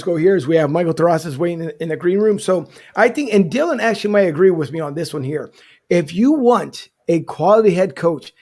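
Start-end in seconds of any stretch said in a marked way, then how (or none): 5.9-8.3 slow, drawn-out delivery; measured, teasing slow build; deliberate build-up. Real, not acted. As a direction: draw it out before the big reveal. Drawn-out build-up to the joke pick.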